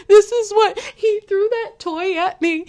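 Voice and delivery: put-on child complaining. Mother voicing her little son tattling about a thrown toy, high childish whine. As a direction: whine it like a small kid telling on his brother.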